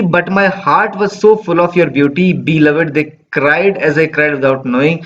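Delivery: slow, measured recitation of the verse; poem reading. Acted. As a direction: read the line slowly, savouring it. Reading poem lines slowly.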